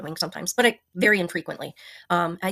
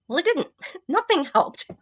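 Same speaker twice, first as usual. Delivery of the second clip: rueful laugh; 9 semitones higher, 4 dB louder than usual. Real, not acted. Telling viewers nothing worked, with a rueful laugh. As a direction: pitch jumps higher, laughing through the words. Exasperated laugh at failed remedies.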